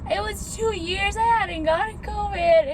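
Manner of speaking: high, tearful laughing dismay; about to cry. Real, not acted. Telling viewers coffee's canceled for covid, near tears. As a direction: break the bad news near tears. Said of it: "I'm gonna start crying".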